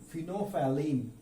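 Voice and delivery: फिनोफैलिन said slowly as fee-no-fa-leen; slow, careful फिनोफैलिन; British English फिनोफैलिन; British pronunciation. Shown as a demonstration. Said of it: "is the pronunciation in British English".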